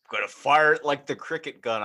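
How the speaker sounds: mimicking the dopey dummy voice. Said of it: "What accent was that?".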